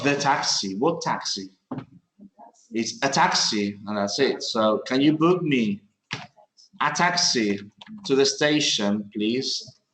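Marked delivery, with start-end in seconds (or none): 4.4-9.8 book stressed in a clear model. Shown as a demonstration. Teacher models the corrected request for the class. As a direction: lean on book, then read on evenly. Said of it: "Because it's not a particular one".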